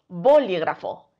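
"bolígrafo" stressed on BO; BÓ-li-gra-fo; stress on first syllable. Shown as a demonstration. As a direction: hit BO in "bolígrafo". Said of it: "la sílaba tónica es bo".

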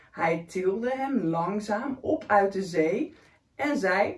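put-on lively read-aloud for a child; story reading. A narrator's reading. Reading a picture book to a young child, lively. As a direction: read the picture book warmly to a little one.

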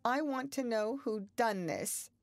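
wavering voice asking who broke it; quavering. A narrator's reading. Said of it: "she quavered".

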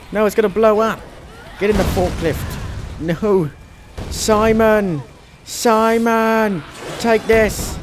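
high, loud, drawn-out cries; hammed-up emergency shouting; urgent calling out. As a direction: yell to a companion in a game panic. Calling Simon during game emergency.

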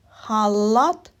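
халат with a long hard л; drawn-out L. Shown as a demonstration. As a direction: linger on the л in халат. Teacher highlights sound L in word.

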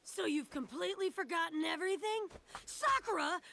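urgent pleading. Acted. Urging friend to flee fake world.

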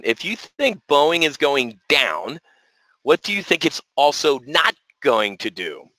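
slow, deliberately spaced question; slow repeat. Real, not acted. Trader repeating a question for his audience, slowly. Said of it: "I'll repeat it slowly".

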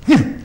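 short, high "hmm" of effort; mouse's effort grunt. Acted. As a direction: grunt like a tiny climber hooking a claw. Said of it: "this little mouse goes".

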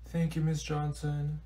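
fake sad. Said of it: "you better not be faking this".

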